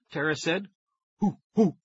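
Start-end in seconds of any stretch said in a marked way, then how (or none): 1.2-1.8 hooting like a chimp, half-voiced; chimp hoots. A narrator's reading. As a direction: let out two chimp hoots. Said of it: "I replied".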